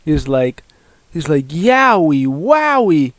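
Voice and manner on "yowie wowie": high, swooping cartoon exclamation; playful, swooping imitation; cartoonish catchphrase. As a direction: sing it out in a put-on voice. Quoting character's catchphrase.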